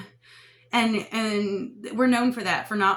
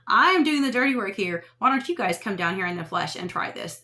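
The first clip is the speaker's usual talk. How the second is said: loud, taunting call to absent helpers; hammed-up complaining shout at the slackers; mock complaint; 4 dB louder than usual. Voicing a complaining spirit/self.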